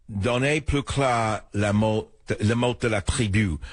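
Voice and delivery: Donnez plus clair la mot said slowly in French; slow French recitation; French quote. Retold or imitated. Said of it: "I will quote it".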